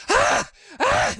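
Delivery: high, strangled "ah, ah" of letdown; pained whimper. Retold or imitated. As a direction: squeak out a crushed little cry. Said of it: "like that".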